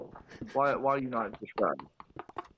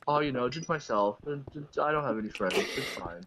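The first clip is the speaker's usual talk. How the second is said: mock lonely reply; 3 semitones higher than usual. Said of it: "Who are you talking to?".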